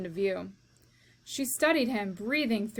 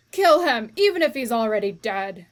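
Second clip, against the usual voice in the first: shout; 9 dB louder than usual. Acted. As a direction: roar the order. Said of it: "shouted Cook".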